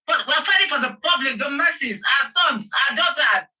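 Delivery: shouting for our sons and daughters; impassioned shout. Real, not acted. Impassioned plea for justice.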